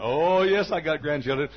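loud, high and pleased; proud grandmother. Retold or imitated. Grandmother boasts to the preacher about grandchildren, loud and high. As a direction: burst out proudly. Old lady answers proudly.

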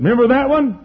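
loud, high-pitched taunting accusation; accusing devil. Acted. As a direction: throw it at him as the devil. Devil accusing Luther in story.

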